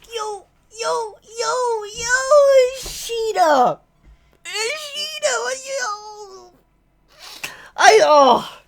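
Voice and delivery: screaming the name, very high and loud; losing it with excitement, shouting yo; real hyped yelling. Real, not acted. Reacting to Sukiyama's moment, high excited screams.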